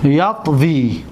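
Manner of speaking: یطوی drawn out very slowly; teacher stretching یطوی for the class; slow teaching repeat. Shown as a demonstration.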